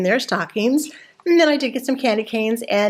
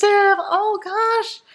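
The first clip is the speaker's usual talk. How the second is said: surprised; 10 semitones higher than usual. Real, not acted. Shocked at Hershey Kisses price.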